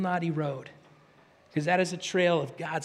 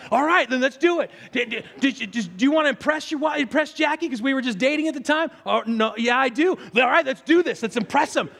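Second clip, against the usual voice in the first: rallying; 5 semitones higher than usual. Retold or imitated. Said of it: "Brent rallying in the car".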